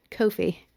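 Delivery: coffee said KOH-fee with a long oh; British coffee. Shown as a demonstration. Spelling out the British sound for listeners, KOH-fee. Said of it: "K O F E E".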